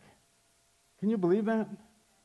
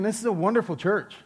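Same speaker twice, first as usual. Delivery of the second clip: laughing; 4 semitones higher, 5 dB louder than usual. Retold or imitated. Joyful punchline of the story.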